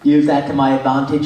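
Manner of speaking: buck-toothed English accent; put-on English character accent. Shown as a demonstration. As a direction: speak English-accented, round big front teeth. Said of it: "I came up with an English accent".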